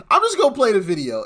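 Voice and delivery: laughing while talking. Real, not acted. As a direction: laugh through the words. Host laughing in disbelief.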